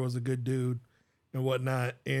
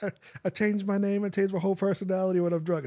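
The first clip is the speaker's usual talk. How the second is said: higher-pitched put-on British accent; drunk British friend; 7 semitones higher than usual. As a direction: imitate a tipsy friend turned British. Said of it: "then she becomes British".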